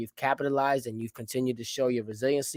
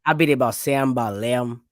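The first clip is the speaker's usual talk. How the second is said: imitated Midwestern Southern "Sam" and "Lamb" for numbers; Midwestern Southern accent; 2 semitones lower than usual. Host mimicking Midwesterners giving a time, Midwestern Southern accent. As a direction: squash seven and eleven into "Sam" and "Lamb", Midwestern style. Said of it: "that's some Midwestern Southern shit".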